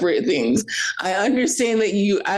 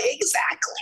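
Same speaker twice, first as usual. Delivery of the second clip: whispered; 6 semitones higher, 5 dB quieter than usual. Retold or imitated. Own reaction, whispered.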